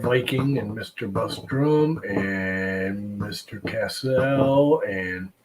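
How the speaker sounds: hoarse, failing voice; losing voice. Real, not acted. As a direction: voice giving out mid-sentence. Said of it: "all of a sudden I'm losing my voice".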